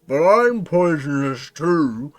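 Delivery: slow, loud, muffled words; mouth-full creature voice. Acted. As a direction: talk round a big mouthful. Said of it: "tries to talk with its mouth full".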